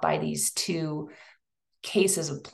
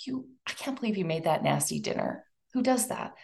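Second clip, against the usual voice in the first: fast, softer scolding of herself; inner critic; 6 dB quieter, faster than usual. Retold or imitated. Speaker voicing her own inner critic, fast and scornful. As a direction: snipe at yourself under your breath. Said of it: "negative self-talk".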